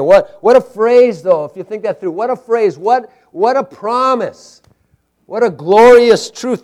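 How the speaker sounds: high, loud preacher's wonder; awed exclamation. Real, not acted. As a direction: marvel at it, voice lifted. Preacher marvels at the phrase.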